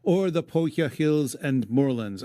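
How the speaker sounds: measured verse reading; poem recitation. Acted. Host reading the epic to his cohost, recited verse. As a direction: read it aloud like old poetry.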